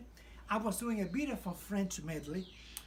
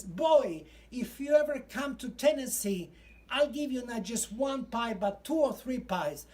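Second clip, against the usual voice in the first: loud, higher call across the room; booming old colonel; 3 semitones higher, 5 dB louder than usual. Retold or imitated. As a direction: boom it out like a proud old Southern gentleman. Colonel Sanders stands up, calls out.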